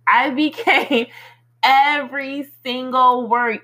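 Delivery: "became every single word" slow and spaced out, with a laugh breaking in; slow down and punch "became every single word"; emphatic repeat. Real, not acted. Telling everybody the words came true, "became every single word" said slowly and emphatically.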